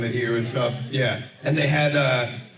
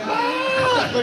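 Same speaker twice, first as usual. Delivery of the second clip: excited yelp. Retold or imitated. Stoned viewers reacting to outburst.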